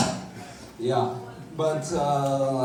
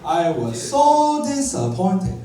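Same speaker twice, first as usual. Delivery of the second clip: mock Chinese accent; 3 semitones higher, 4 dB louder, slower than usual. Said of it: "the Chinese accent".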